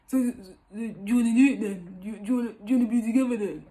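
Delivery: lightly voiced boyfriend, quick and stumbling; a hint of a flustered boyfriend; imitating the boyfriend. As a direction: rush the question like a flustered guy. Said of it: "That's what he's gonna say".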